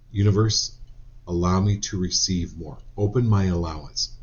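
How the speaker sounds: earnest affirmation chant easing into a hush; affirmation prayer. Acted. Leads affirmations to the Universe.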